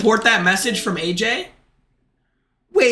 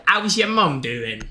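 put-on drawn-out British accent; slower than usual. Streamer greeting a follower, British accent. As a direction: ask it slowly as a British bloke. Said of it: "W accent, thanks bloke".

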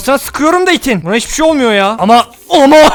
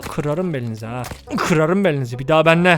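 low menacing threat; 8 semitones lower, 8 dB quieter than usual. Pretend. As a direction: threaten them low and dark.

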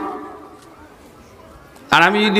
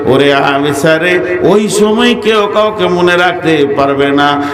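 melodic sermon. Real, not acted. Preacher warns Ayesha of Judgement Day, in melodic sing-song preaching. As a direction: preach in a sustained chant, swelling on the big phrases.

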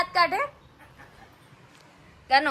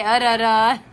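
imitating cough; 5 dB louder, slower than usual. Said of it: "એમ ખાય?".

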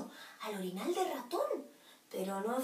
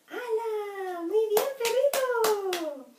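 1 excited praise; 6 semitones higher, 4 dB louder, much slower than usual. A narrator's reading. Praising the puppy.

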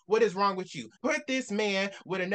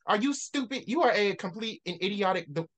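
exasperated; 4 semitones higher than usual. Real, not acted. Ranting at book character.

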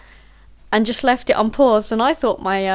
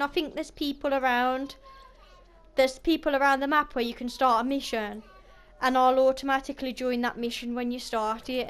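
real, casual Black Country accent; everyday Black Country family chat; 7 dB quieter than usual. Real, not acted. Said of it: "apologise for my accent in the video".

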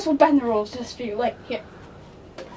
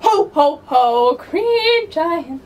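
jingle sung lower, "ho" deep and loud; 4 dB louder, much slower than usual. Shown as a demonstration. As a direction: sing "ho, ho, ho" low. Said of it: "lower, like this".

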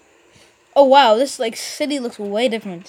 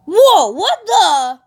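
slow, louder stunned "whoa"; surprised; 5 semitones higher, 6 dB louder, much slower than usual. Real, not acted. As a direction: react in disbelief. Sudden new game visuals.

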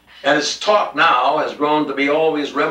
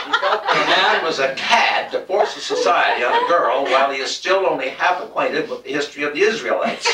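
laughing through words; 2 semitones higher than usual. Real, not acted. Reading while laughing.

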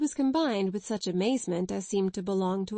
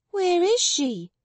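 much higher, louder, slow near shriek; almost shrieked; 10 semitones higher, 6 dB louder, slower than usual. Acted. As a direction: burst out in disbelief. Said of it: "almost shrieked Jessie".

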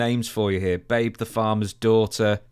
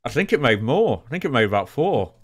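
talking around a pen in the teeth; pen in mouth; 2 semitones higher than usual. Real, not acted. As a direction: speak with a pen held in the mouth. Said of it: "I've got a pen in my mouth".

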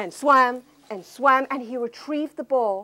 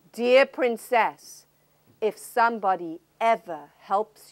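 stern king. Acted. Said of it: "fixed her with a stern stare".

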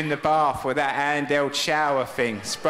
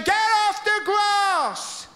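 even higher, drawn-out shout; caretaker yelling again; much slower than usual. Retold or imitated. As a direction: stretch the yell out, exasperated. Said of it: "he's saying".

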